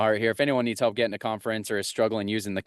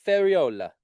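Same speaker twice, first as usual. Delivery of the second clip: "Ferriola" said higher with an Italian accent, rolling the r and leaning on "o"; 6 semitones higher, 4 dB louder than usual. Shown as a demonstration. Getting an agent's name right, asking Giovanna, in an Italian accent. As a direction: give "Ferriola" an Italian lilt, pitched up. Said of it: "You gotta say it with an Italian accent".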